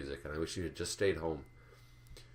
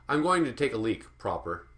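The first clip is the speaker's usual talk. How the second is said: mock pretentious voice; 5 semitones higher, 4 dB louder than usual. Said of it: "how bitchy is that".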